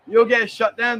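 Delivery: laughing through the warning. Real, not acted. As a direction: chuckle it out as you tease her. Repeats it while laughing.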